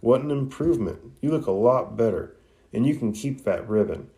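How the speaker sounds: lightly acted excited exclamation; a touch of pleased excitement; mildly excited. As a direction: show off the result with a lift in pitch. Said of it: "Ino excitedly exclaims".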